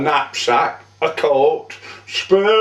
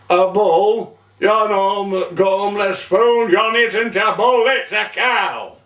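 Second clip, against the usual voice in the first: higher-pitched, acted indignation; exasperated scolding; 4 semitones higher than usual. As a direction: tell off a hopeless recruit. Sergeant scolds Sam over his shot.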